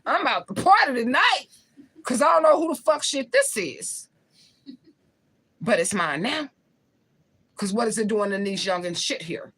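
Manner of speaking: high, loud gleeful announcement; excited party talk. Retold or imitated. Telling herself she's keeping the stash, gleeful and loud. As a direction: crow about the find like you won a prize. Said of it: "That's what I said to myself".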